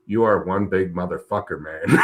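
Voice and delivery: a hint of Blessing's accent, leaning in. Pro greeting him at the show, lightly in Blessing's accent. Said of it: "he said it with his accent".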